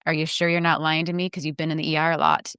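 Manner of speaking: a hint of cold suspicion; suspicious accusing. Shown as a demonstration. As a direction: mutter it like a doubting nurse. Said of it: "that phrase versus".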